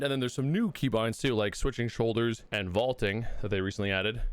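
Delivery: winded after push-ups; talking while catching breath. Real, not acted. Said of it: "so I'm out of breath".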